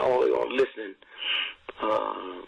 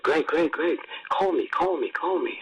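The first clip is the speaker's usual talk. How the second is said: wife calling; 5 semitones higher than usual. Retold or imitated. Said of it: "That's Lillian".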